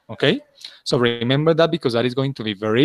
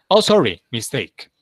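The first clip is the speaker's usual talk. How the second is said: quick self-correction demo. Shown as a demonstration. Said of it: "That is the way you have to say".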